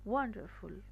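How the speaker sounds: ওয়ান্ডারফুল with WAN leaned on, rest falling away; stress on first syllable. Shown as a demonstration. Teacher answering how it is pronounced, first syllable stressed. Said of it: "তো ওয়ানটাকে আমরা".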